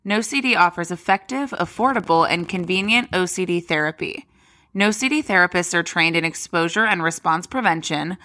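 upbeat sponsor read. Acted. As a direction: read it like a podcast ad. Host reads sponsor ad.

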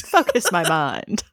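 slow, drawn-out teasing echo with a laugh; mock echo. Cohost teasing her partner's phrasing, slow mock echo. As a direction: savour the words, mocking the cadence. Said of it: "The cadence".

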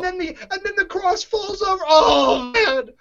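high, near-crying voice that breaks on oh; choked up. Real, not acted. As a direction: voice cracks as it comes back. Reliving the sad ending.

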